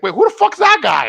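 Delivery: high, loud, startled question; acting out a startled sister; startled reaction. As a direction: blurt it out in alarm.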